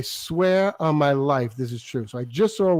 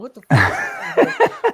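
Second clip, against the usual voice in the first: high, drawn-out mock outrage; hammed-up freak-out in a high voice; retold screamed shock; 4 dB louder, much slower than usual. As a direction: act out shrieking disbelief, pitch way up. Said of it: "I scream".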